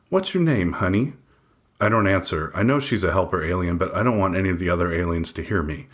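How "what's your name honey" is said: nurse voice. A narrator's reading. Nurse voiced in read story.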